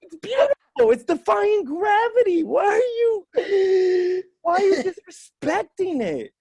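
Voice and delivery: high-pitched comic outrage; exasperated protest. Acted. Comic defending flight against machismo, high exasperated protest. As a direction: plead its case in a high, incredulous voice.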